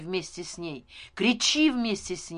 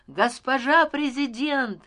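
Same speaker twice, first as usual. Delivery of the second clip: higher, louder drawn-out cry; 6 semitones higher, 7 dB louder than usual. A narrator's reading. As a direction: hail her loudly from the crowd. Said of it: "стал кричать я". (громкий протяжный выкрик)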